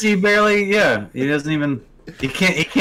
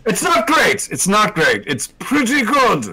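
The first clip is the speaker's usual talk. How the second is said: Shock Dave voice; 5 semitones higher than usual. Acted. Shock Dave judging the show.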